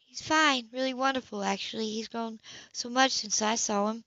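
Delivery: lightly voiced prim sister. Sybil voiced by narrator.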